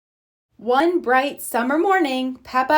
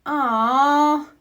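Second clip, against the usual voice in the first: groan; 4 semitones higher than usual. Acted. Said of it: "groans Peppa".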